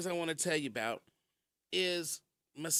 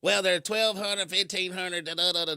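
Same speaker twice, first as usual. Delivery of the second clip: imitating rude lady; 6 dB louder than usual. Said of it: "Just was just mean and rude".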